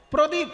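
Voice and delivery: প্রদীপ with a clear r after the প; correct with r. Shown as a demonstration. Teacher showing the form the friend never says. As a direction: stress the রফলা in প্রদীপ. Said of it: "বলে না কোনোদিন".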